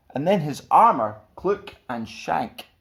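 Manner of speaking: tripping over clook and shank; slip of the tongue. Real, not acted. The speaker fumbles the line, tongue-tied. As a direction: garble the sound words.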